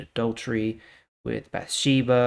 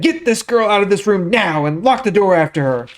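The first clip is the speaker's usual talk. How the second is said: louder, higher harsh order; harsh command; 9 semitones higher, 11 dB louder than usual. Acted. Amnon commanding his servant to lock her out, loud and harsh. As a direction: order her thrown out in contempt.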